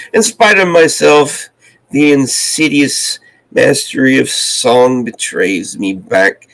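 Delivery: measured recitation with drawn-out line endings; poem reading. Acted. Host reads a D H Lawrence poem to viewers, measured poem reading. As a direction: recite it steadily, pausing between phrases.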